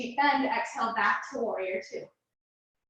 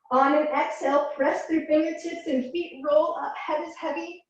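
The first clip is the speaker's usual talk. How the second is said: muffled; 4 semitones higher than usual. Real, not acted. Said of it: "my voice is gonna be muffled".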